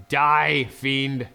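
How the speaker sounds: mock battle cry. Killing barbarian dramatically.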